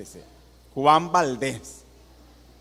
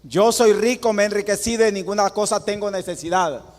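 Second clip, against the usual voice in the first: mocking boast; 5 semitones higher than usual. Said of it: "si no lo practicamos".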